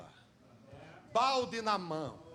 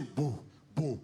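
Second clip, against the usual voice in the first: heartbeat sound; 8 semitones lower than usual. Acted. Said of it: "O coração dela faz assim".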